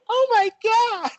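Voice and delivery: high slow loud shriek of shock; shocked women. Retold or imitated. Women in the restroom shrieking oh my God. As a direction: gasp it out like startled women. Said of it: "three women just go".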